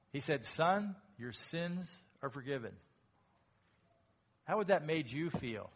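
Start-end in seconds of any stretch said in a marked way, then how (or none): 0.4-2.8 tender forgiveness. Acted. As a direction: say it kindly to the man. Jesus's real answer, contrasted.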